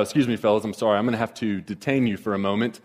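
a hint of a polite officer detaining you; professional voice. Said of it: "in his professional voice".

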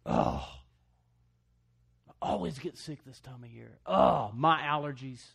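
mock moan over sniffles and allergies, clinging to every mine; whiny complainer. Preacher mocking a whiner in the pews, loud mock whine. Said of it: "Anybody know what I'm talking about".

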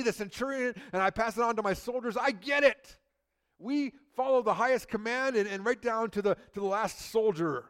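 a soldier who gets it, excited; eager centurion. Pretend. Centurion explaining the chain of command to Jesus, fired up and loud. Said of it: "The centurion's like".

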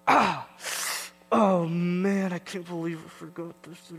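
hammed-up panic over a forgotten suitcase; mock dismay. Son teasing mom on road trip, hammed-up dismay. Retelling his fake forgetting routine.

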